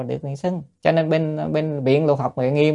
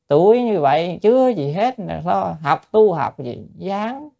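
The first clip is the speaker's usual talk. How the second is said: mocking critic voice; 5 semitones higher, slower than usual. Mocking critics of young monk.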